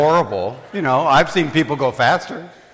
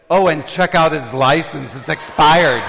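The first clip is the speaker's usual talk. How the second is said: loud, raised mock snitching; tattling friend; 4 semitones higher, 5 dB louder than usual. Friend informs cop about expired license, loud tattling. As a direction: blurt it out to the officer.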